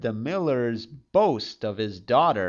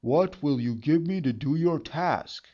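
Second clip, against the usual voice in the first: gravelly sly hobgoblin; 2 semitones higher than usual. A narrator's reading. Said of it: "and said".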